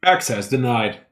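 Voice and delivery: flat machine announcement; robotic voice. Acted. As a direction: read it like a security system. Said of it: "robotic voice say this".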